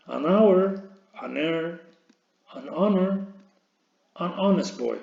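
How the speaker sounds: An hour said as an awer, linking the n; each example said clearly with a lifted pitch; model pronunciation. Shown as a demonstration. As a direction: show how an links to a silent h. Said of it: "teacher pronouncing examples".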